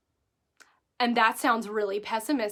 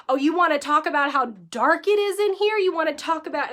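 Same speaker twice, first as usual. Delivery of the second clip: mock angry snap; 4 semitones higher, 4 dB louder than usual. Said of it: "daggers coming out of my eyeballs".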